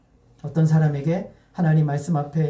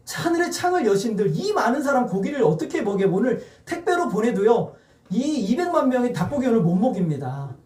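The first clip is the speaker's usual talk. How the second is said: higher-pitched acted objection; exasperated pleading, pitched up; incredulous protest; 4 semitones higher than usual. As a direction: protest as Moses that it cannot be done. Acting Moses protesting to God.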